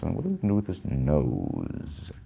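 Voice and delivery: a light impression of the director mulling over a face; imitating Nichols. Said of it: "Nichols talks like this".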